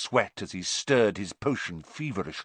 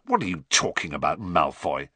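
rough; 3 semitones lower than usual. Acted. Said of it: "said Ron, roughly".

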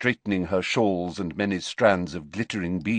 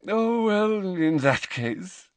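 with a smile; 12 semitones higher, much slower than usual. A narrator's reading. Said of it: "with a smile".

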